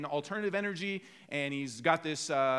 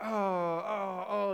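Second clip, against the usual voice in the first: drawn-out sympathetic "oh" groans; imitated wincing groans; much slower than usual. Audience seeing annoying pictures, mock pained groans. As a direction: groan as if you feel the stubbed toe.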